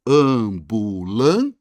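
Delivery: "Ambulância" drawn out very slowly in separate syllables. Shown as a demonstration. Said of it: "palavras separadas em sílabas".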